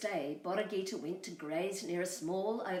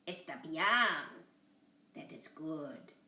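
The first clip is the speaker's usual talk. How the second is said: coyote voice; 3 semitones lower, slower than usual. Acted. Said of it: "he said".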